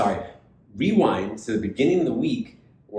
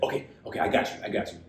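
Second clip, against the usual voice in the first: hushed whisper, keeping the secret; whispered reply; 4 dB quieter, faster than usual. Retold or imitated. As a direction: whisper it like a waiter in on the plan. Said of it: "He's like".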